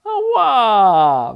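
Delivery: high, loud cry of pain; drawn-out, high ow; pained yell. A narrator's reading. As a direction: yell out as if you stubbed your toe. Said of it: "wrzasnął królik".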